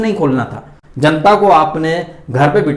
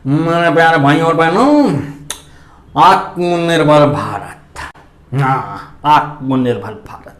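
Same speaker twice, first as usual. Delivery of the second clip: slow, muffled mock speech through a cloth mask; masked prime minister; slower than usual. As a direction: mimic a leader droning slogans through a mask. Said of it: "मुंह पे गमछा बांधकर, mask लगा के बस". (मास्क के पीछे से दबी, धीमी आवाज़ में नेता की नकल)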